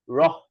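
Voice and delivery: রহ with air released after the flap; flapped র followed by a puff of h; aspirated flap R. Shown as a demonstration. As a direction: breathe out hard on the end of রহ. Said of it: "ঠয় বিন্দু র".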